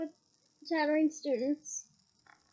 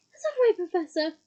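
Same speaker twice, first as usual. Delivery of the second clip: gasped; 3 semitones higher, 5 dB louder than usual. Acted. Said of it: "Hermione gasped".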